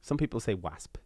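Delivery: wasp with a flat a like wax; South Wales wasp. Shown as a demonstration. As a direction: say wasp rhyming with clasp. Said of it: "very much a South Wales thing".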